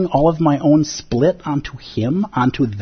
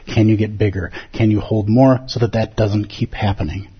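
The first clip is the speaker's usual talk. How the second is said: gentle teacher; 6 semitones lower than usual. Acted. Zen teacher holding up mirror.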